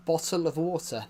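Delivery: "Bottle of water" with both t's sounded; standard British pronunciation. Shown as a demonstration. Showing viewers how Brits say it, standard pronunciation. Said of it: "That's how we say it".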